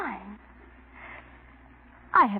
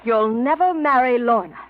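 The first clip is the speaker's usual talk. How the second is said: cold threat; 6 dB louder than usual. Acted. Threatening rival's engagement.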